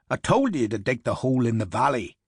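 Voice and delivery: put-on quick, chiding Irish accent; Irish, pushing the point fast. Harper scolds his officer about the grave site, quick Irish accent. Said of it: "the bigger man said".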